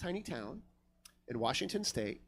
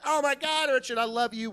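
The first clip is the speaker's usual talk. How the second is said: high, louder mock swooning; gushing admirer impression; 7 semitones higher, 4 dB louder than usual. Drunk bartender declares love to Richard, high mock gushing. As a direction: gush it high as an imitated lovestruck bartender.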